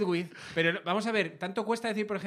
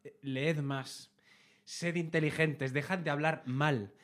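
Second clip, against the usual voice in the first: slow, softer lecture on imperatives; slow preachy imperative; 4 semitones lower, 6 dB quieter, slower than usual. Shown as a demonstration. Comedian lectures the audience on imperatives, slow and soft. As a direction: spell out each command slowly like a schoolteacher. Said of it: "Estoy harto de que esté perdiendo España el imperativo".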